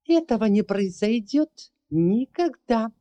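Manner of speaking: high, loud villainess shout. Acted. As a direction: scream it in triumph, stretching never. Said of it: "закричала Лусинда".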